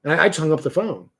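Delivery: ordinary talk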